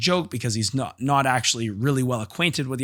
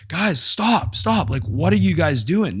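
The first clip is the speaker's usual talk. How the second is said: much higher, urgent call to break it up; alarmed stop; 6 semitones higher, slower than usual. Retold or imitated. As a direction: shout them apart in alarm. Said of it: "I'm like".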